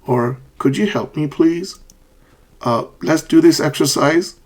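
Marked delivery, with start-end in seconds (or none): 0.6-1.8 courteous request rising at "please"; polite fall-rise. Shown as a demonstration. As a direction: dip on "help me", lift "please" high. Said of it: "when you are being polite".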